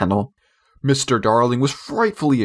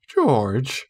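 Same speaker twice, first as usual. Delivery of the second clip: entreating. Acted. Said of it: "Missus Darling entreated him".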